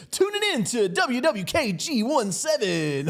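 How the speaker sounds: high, slow DJ announcer drawl; radio DJ voice. Retold or imitated. Friend mocking a radio DJ, high slow announcer voice. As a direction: croon it like a cheesy radio DJ. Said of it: "the radio D J".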